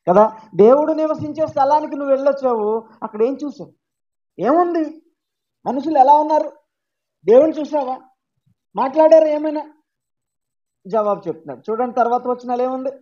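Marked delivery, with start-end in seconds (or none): 0.5-9.7 rapid eager questions, a little higher. Retold or imitated. Church crowd eagerly questioning Paul about heaven, excited. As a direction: pepper him with curious questions.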